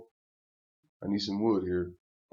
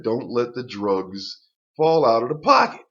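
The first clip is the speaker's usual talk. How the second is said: mock woman warning; 7 dB louder than usual. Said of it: "She actually said".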